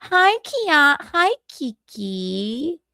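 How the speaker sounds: lightly voiced cheerful greeting, slow; Michaeline in a good mood. A hint of Michaeline greeting Kiki cheerfully. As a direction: stretch the hi out sweetly. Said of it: "Michaeline in a good mood".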